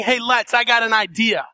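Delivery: breezy offhand idea, no authority; easygoing "Hey, let's" like a friendly proposal; casual suggestion. Shown as a demonstration. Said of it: "in a casual way".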